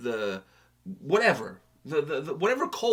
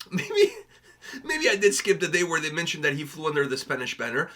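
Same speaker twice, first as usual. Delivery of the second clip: laughing through the words. Real, not acted. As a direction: chuckle while confessing. Admits skipping school, laughing.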